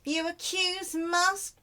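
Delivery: slow, loud mock French accent. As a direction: ham up a French judge. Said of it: "French accent".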